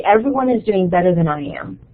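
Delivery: a light touch of gloomy, defeated self-talk; negative self-talk voice. Shown as a demonstration. Lecturer voicing her own inner critic, a hint of defeat. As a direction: mildly mimic the anxious inner critic. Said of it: "I say it in that voice because sometimes I talk to myself that way".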